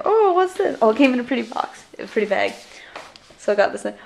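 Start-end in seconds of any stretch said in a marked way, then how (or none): 0.0-0.8 retold excitement. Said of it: "I was like".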